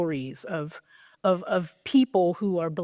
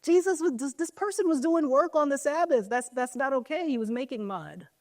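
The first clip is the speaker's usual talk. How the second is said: higher, mock-indignant complaint; upset Pharisees; 4 semitones higher than usual. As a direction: play the offended religious leaders, lightly. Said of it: "the Pharisees get upset 'cause they're like".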